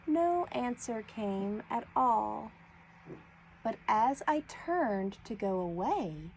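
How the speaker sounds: put-on even, clear poem read for children. Shown as a demonstration. Teacher reading the snail poem to her class, clear reading. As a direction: read the poem through at an easy pace. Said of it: "read it again a little slower".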